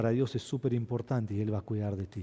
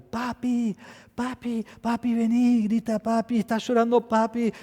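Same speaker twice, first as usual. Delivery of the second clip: put-on high child voice calling for daddy; imitating a crying little girl; little daughter calling; 10 semitones higher, 4 dB louder than usual. (imitando a la hija pequeña que llama llorando)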